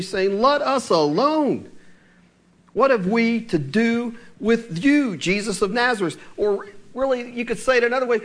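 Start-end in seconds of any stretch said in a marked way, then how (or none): 0.4-6.2 slow demon plea. Retold or imitated. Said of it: "he cried out".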